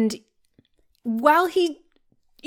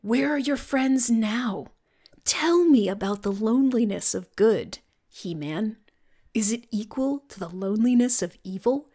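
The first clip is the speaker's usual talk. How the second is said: whispered villain. Retold or imitated. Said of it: "So then".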